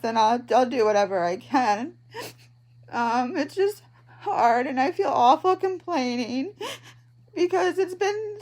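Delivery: fighting back tears as she speaks; crying. Real, not acted. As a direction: voice breaking with real tears. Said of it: "I don't know why I'm crying".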